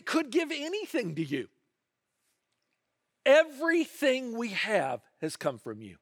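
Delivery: lifted, slow, hushed awe as King Solomon prays; a preacher voicing a king's humble prayer; reverent prayer. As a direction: pray it humbly, drawing the words out. Solomon's humble temple dedication prayer.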